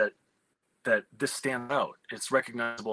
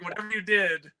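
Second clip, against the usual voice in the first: higher, eager quote of thrilled producers; excited producers; 6 semitones higher than usual. Retold or imitated. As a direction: gush like a producer who loves it. Producers gushing over the script.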